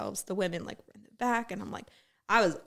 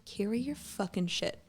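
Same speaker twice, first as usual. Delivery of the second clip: slow, softer, deadpan put-down; flat dismissive retort; 4 dB quieter than usual. Retold or imitated. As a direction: say it slow and unimpressed. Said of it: "I'm like".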